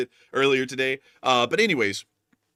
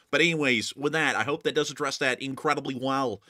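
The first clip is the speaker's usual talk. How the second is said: put-on Californian accent. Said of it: "a good Californian accent".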